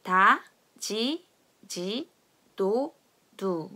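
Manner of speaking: "다, 지, 지, 도, 두" slowly, syllable by syllable; Brazilian D drill. Shown as a demonstration. Teacher leading a read-along, spaced Brazilian syllables "다, 지, 지, 도, 두". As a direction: drill "다, 지, 지, 도, 두" with ji in the middle. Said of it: "다 같이 읽어보도록 하겠습니다".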